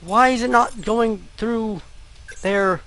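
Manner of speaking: high-pitched, exasperated plaint; upset whine. Real, not acted. Gamer stuck because inputs won't register, plaintive. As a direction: wail a little at the game. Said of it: "It's making me very sad".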